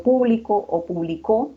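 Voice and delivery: "público" stressed on the first syllable PÚ, then "publicó" on the last syllable CÓ; stress contrast demo. Shown as a demonstration. Teacher showing students how word stress changes meaning. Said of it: "Al decir, por ejemplo".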